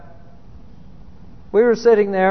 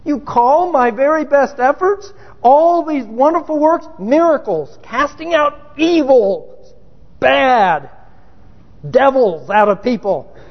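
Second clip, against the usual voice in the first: outraged protest; 3 semitones higher than usual. Retold or imitated. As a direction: argue back at God, hurt and offended. Voicing the outraged accused believer.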